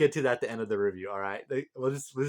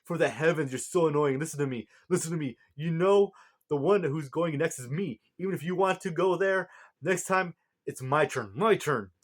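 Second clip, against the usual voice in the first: tirade; 4 semitones higher than usual. Retold or imitated. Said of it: "goes on a tirade saying".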